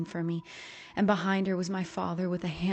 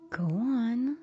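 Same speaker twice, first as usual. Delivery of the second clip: piercing command; 5 semitones higher than usual. A narrator's reading. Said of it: "my mother said with piercing eyes".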